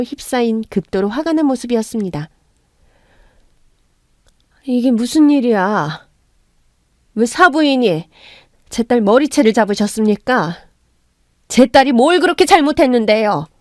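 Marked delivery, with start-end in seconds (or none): 4.7-13.5 suppressed anger. Acted. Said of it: "분노를 꾹꾹 누른 낮은 목소리로".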